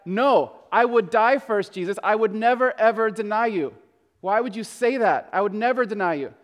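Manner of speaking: emphatic, mildly indignant protest with weight on NO. Acted. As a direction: insist on it, leaning on NEVER. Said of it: "it sounds very emphatic".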